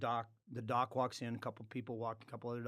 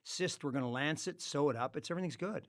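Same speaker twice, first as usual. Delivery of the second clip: mock dismissive staff; 3 semitones higher than usual. Mimicking dismissive hospital staff.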